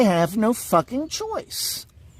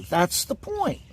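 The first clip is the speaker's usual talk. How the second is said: ordinary delivery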